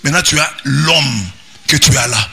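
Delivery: rising pulpit exhortation; preaching at full force. Acted. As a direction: preach it out over the music. Priest exhorts the congregation.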